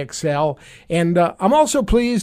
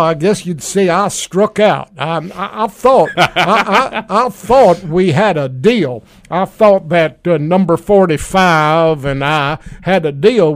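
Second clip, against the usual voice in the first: Rex Tillerson impression. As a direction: play the fired secretary as an aggrieved good ol' boy. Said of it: "welcome, former Secretary of State Rex Tillerson".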